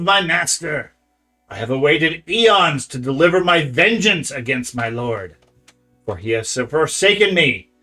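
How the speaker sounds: loud, hissing creature voice. Acted. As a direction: hiss out an ancient blind oracle. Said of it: "to speak out in a hissing voice".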